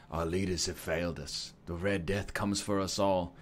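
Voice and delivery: story narration. Acted. Player reads the doomsday backstory aloud, sombre narration. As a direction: read it like a grave prologue, evenly.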